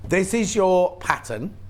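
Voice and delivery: slow careful words round hiccups. Real, not acted. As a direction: hold the hiccups back while speaking. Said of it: "I've got the hiccups".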